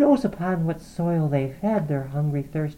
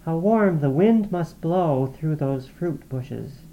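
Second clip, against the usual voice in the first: whispered; 7 semitones higher, 3 dB louder than usual. A narrator's reading. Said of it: "whispered like the restless brook".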